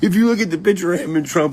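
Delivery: high, fast, through laughter; laughing. Real, not acted. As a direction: talk while cracking up. Laughs at the faked photo.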